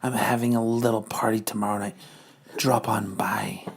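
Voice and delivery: sultry Madam Hydra. Acted. Madam Hydra teases Hank about late nights. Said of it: "Madam Hydra invites".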